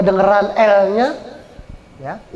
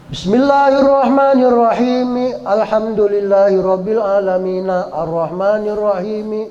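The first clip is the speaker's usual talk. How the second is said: wrong recitation. Shown as a demonstration. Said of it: "Nah, itu nggak boleh".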